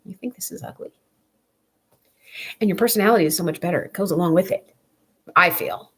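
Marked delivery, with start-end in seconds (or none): 0.0-0.9 high, incredulous snap that drops to a hiss; mock outrage, pitched up then hissed; indignant retort. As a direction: scoff at the critic in disbelief. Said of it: "you're just like".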